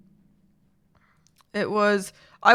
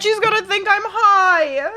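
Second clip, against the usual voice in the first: laugh-cry; 2 semitones higher, slower than usual. Real, not acted. Laughing through tears.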